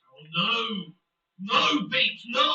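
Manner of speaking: a loud groan of no at the screen; dismayed shout. Real, not acted. Streamer yelling at his player on the pitch, dismayed shout. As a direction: shout no as the chance goes begging. Streamer reacts to missed chance.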